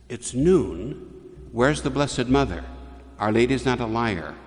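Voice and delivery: mildly indignant retold demand; impatient priest, lightly acted; grumpy priest. Grumpy priest quoted in a sermon.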